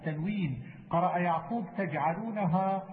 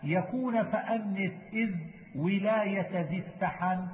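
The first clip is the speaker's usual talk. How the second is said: measured, metrical reading of didactic verse; verse recitation. Acted. Teacher reciting memorised verse on Quran readings, measured recitation. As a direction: recite the poem slowly, line by line.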